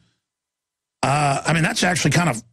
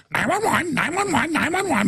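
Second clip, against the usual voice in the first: much higher whiny mock panic; not parrot voice; 11 semitones higher than usual. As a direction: squeak it out helplessly, pitched way up. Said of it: "but not in the parrot voice".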